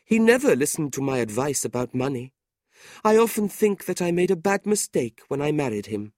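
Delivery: high, plaintive wife airing grievances; complaining widow. A narrator's reading.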